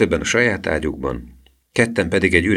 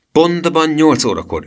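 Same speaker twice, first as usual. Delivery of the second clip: slow high command; 10 semitones higher, 5 dB louder than usual. Acted. Professor's commanding plan.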